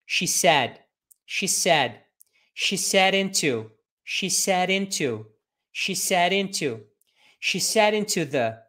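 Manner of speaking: slow, clear model phrases built piece by piece; teacher modelling a sentence chunk by chunk, slow and clear; chunked slow drill. Shown as a demonstration. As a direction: say each chunk slowly and cleanly for repeating. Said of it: "você vai particionando a frase e você vai falando assim".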